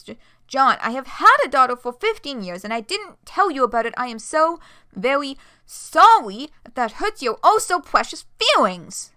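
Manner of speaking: loud, bitter sarcastic apology; mock him, furious; angry sarcasm. Jade's bitter sarcastic outburst.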